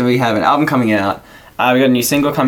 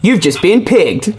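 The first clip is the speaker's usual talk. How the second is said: slow prank call shout; 5 semitones higher, slower than usual. Pretend. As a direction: drag out the prank line. Prank call catchphrase to parents.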